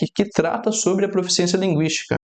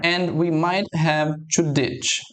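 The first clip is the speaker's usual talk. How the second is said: slow reading; much slower than usual. Shown as a demonstration. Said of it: "teacher rereads the clip line".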